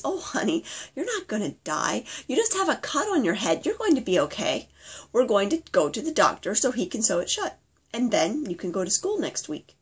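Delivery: a hint of a kind dad calming his little girl; gentle reassuring dad. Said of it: "Daddy laughs a little and says".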